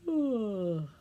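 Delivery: long mock yawn on "oh"; pretend yawn. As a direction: act out a wide, open-mouthed yawn.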